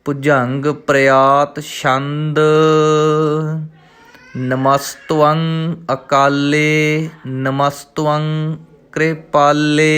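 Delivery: slow, measured recital of the verse; slow devotional reading; scripture recitation. Shown as a demonstration. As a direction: recite each word slowly and clearly.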